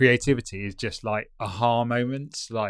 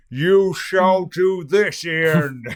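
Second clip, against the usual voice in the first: booming wizard voice, intoned very slowly and loudly; 7 semitones higher, 7 dB louder than usual. Imitating a big booming command to Ian: Gandalf voice. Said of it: "Channeling Gandalf vibes".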